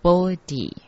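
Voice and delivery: "波迪" said bo-di, for 菩提; pronounced bodhi. Shown as a demonstration. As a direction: say "波迪" as Sanskrit bodhi. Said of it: "菩提念成波迪".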